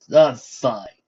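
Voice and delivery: loud insistent fine; insisting. Acted. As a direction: snap it to end the question. Hiding pain, insisting.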